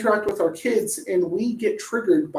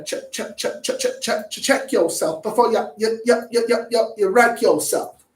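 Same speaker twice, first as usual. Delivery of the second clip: playful stutter. Pretend. Playful stutter quoting a song line.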